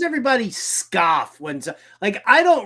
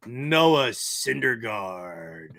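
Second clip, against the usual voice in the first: stifled laugh; 8 semitones lower, 4 dB quieter, much slower than usual. Real, not acted. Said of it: "trying to say this with a straight face".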